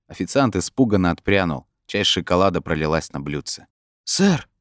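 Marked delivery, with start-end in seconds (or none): 4.1-4.5 high, frightened little squeak; breaking voice. A narrator's reading. Frightened waiter asks Brin, voice breaking high. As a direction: let the voice jump up nervously. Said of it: "спросил он срывающимся голосом".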